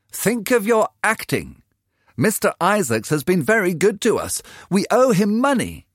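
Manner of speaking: the poor mother pleading sense with her daughter; weary mother. A narrator's reading. Mother urging daughter to remember their debts, worried.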